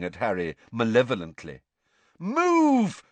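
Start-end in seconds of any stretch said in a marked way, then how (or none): 2.2-3.0 loud, high-pitched shout; high, forceful yell; shouted command. A narrator's reading. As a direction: shout it as a frustrated order. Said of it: "Harry shouted at it".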